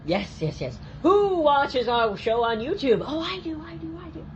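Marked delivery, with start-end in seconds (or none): 1.0-3.0 high, slow rallying question; kids host question. Pretend. Quizzing the kids. 3.0-4.2 put-on very high, soft eager kid voice; small child. Answers as child.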